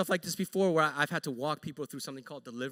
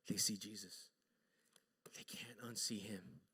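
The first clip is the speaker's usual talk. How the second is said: very soft, low, near-whisper; hushed emphasis; 10 semitones lower, 17 dB quieter than usual. Real, not acted. Preacher telling what the disciples now see, hushed. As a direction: let it sink to a whisper. Preacher drops to hush for weight.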